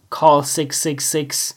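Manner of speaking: whispered sexy hotline ad; mock hotline whisper. Shown as a demonstration. Mocking close-mic podcasters, whispered sleazy ad. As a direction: breathe it like a phone-sex ad. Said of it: "just whisper".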